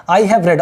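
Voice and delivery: "I have read" with "read" said red, past tense; "read" like the colour red. Shown as a demonstration. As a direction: say "read" as "red", not "reed". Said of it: "तो वैसे pronounce करेंगे".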